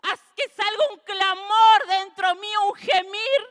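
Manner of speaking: voz quebrada por el llanto, más fuerte; conmovida. Real, not acted. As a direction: llorando al recordarlo. Recuerda llorar por su hija. (la madre recuerda sufrir por su hija, llorando)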